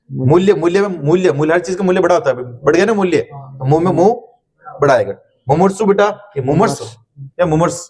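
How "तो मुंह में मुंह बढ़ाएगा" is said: each word stretched for the class; slow, drawn-out explaining. Shown as a demonstration. Teacher to class, slowly drawn out. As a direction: spell it out slowly for students. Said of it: "teacher explains spelling".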